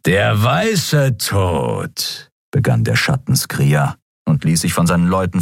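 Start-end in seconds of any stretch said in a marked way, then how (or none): 0.0-2.3 very slow, drawn-out menace; menacing leader. A narrator's reading. Shadow Skrier taunting Keru, very slow menace. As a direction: savour the name.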